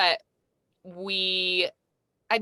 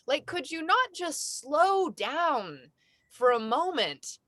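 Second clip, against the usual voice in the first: pleading lecture; 4 semitones higher than usual. Retold or imitated. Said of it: "so I said out loud".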